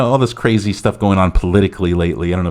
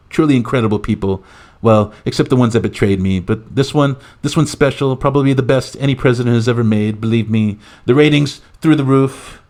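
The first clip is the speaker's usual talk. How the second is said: higher-pitched mock presidential announcement; lightly parodied politician hyping the crowd; Donald Trump; 4 semitones higher than usual. President announcing his pick to the press, boastful parody. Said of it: "as current President Donald Trump".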